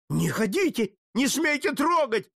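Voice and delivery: frantic shout. Acted. Jesuit shouting at Putilin not to touch the statue, frantic. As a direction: scream at him to stop. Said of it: "закричал иезуит".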